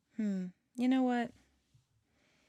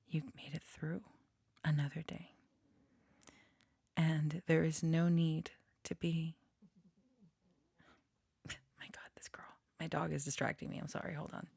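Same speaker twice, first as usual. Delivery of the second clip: hushed whisper. Real, not acted. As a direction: whisper it gently, nearly under the breath. Dog interrupts channeled message.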